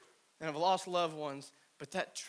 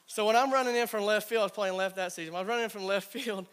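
excited; 5 semitones higher, 7 dB louder than usual. Real, not acted. Excited retelling of comeback.

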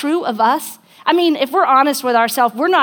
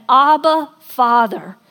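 tender prayer; 4 dB louder, slower than usual. Retold or imitated. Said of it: "And he said".

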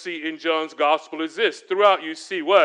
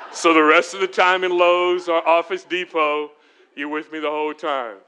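laughing. Real, not acted.

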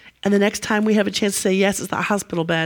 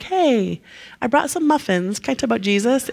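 higher, chirpy mock-friendly visitor; mock friendly neighbour; 3 semitones higher than usual. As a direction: play it as an overly nice muffin-bearer. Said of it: "He's not like".

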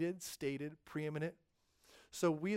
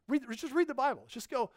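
emphatic urging; 9 semitones higher, 4 dB louder than usual. Real, not acted. Urgent pastoral exhortation.

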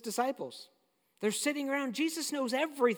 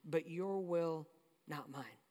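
slow and much softer, fading to almost nothing; surrendered whisper-soft prayer; 5 semitones lower, 8 dB quieter, slower than usual. Retold or imitated. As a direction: let the words fall away in surrender. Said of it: "he follows it with the phrase".

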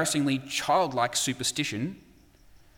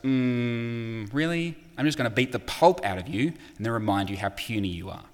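Hulk unimpressed. Retold or imitated. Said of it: "And Hulk goes".

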